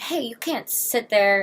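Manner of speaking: imitating a stranger's loud, high yell; retold yell. Stranger on the subway yells at her to move, mock loud yell. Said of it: "Some woman yelled at me".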